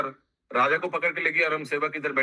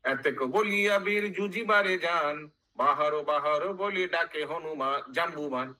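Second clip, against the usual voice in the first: measured chanted verse with drawn-out line endings; sing-song Bengali verse recital; verse recitation; 3 semitones higher, slower than usual. Acted. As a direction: intone it like epic scripture.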